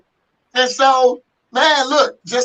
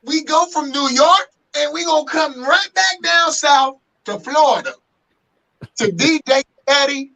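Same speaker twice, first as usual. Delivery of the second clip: hyped host introduction; 4 semitones higher than usual. Real, not acted. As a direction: introduce the guest like a show announcer. Host announces the next guest.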